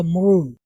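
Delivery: मरून with a very short "muh"; quick first syllable. Shown as a demonstration. Teacher modelling for learners, मरून with reduced first vowel. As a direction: hurry through "ma" into "roon" in मरून. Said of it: "बहुत जल्दी से पढ़ना होगा".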